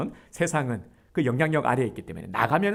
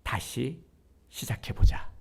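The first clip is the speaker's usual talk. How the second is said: breathy hush on 시작해보자, almost voiceless; tender whisper; slower than usual. Acted. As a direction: whisper it like a gentle father. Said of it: "그게 뭐냐면".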